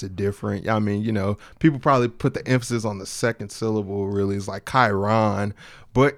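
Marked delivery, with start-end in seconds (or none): 4.7-5.5 Chiron drawn out smoothly, KY-ron; Chiron, slow and rolling; name pronunciation. Shown as a demonstration. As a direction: roll out Chiron slowly and smoothly. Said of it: "it's like a smooth rollout".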